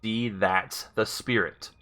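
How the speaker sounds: slow, evenly spaced words; careful command. Real, not acted. Player retrying a voice command, slow and careful. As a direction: say it slowly for a machine to catch.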